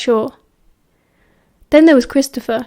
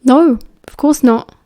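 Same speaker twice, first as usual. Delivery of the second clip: slow, louder mock-innocent denial; straight-faced denial; 5 dB louder than usual. A narrator's reading. Remus answers James's teasing, fighting to keep a straight face. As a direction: deny it while holding back amusement. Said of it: "fought to keep a straight face".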